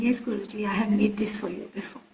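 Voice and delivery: soft, mild imitation of a respectful disciple; polite reply. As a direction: answer the guru meekly and softly. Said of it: "politely saying".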